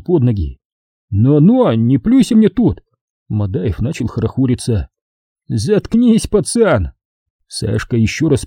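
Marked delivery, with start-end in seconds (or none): 1.1-2.8 raised, indignant rebuke; blustering officer. Acted. Madaev blusters. 5.5-6.9 raised scornful retort; contemptuous. Acted. Sashka snaps back.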